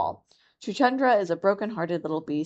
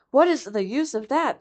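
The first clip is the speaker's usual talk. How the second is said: mongoose Rikki; 6 semitones higher than usual. Acted. Rikki thinks scornfully.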